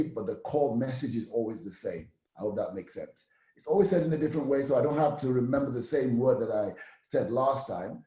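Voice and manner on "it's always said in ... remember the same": fast, rushed repeat of the line; quicker take. Shown as a demonstration. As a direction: say it again, faster.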